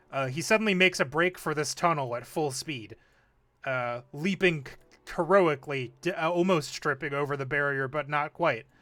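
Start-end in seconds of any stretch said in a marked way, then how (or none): none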